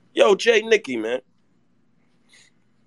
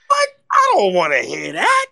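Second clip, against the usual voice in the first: loud pained shout of protest; fed-up fan yelling at his co-host; outraged shout; 3 semitones higher, 7 dB louder than usual. Real, not acted. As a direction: yell it like you can't take the news. Upset about not getting Spider-Man.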